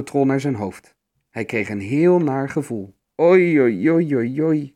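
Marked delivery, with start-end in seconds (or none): 3.2-4.7 drawn-out groan, raised and loud. A narrator's reading. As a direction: moan a run of woe, wavering up and down. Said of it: "kreunde hij".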